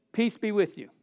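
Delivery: the better greeting; gentle blessing. Shown as a demonstration.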